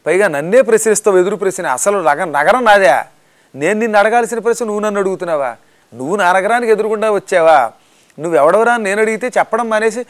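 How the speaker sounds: loud, fast, offended guardian; loud affronted demoness scolding; indignant scolding. Acted. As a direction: snap back at the insolent monkey. Lankini scolds Hanuman indignantly.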